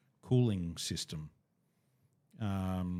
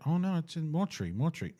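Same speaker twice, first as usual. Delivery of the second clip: flustered excuse; 8 semitones higher, faster than usual. Retold or imitated. Staff voiced fumbling excuse.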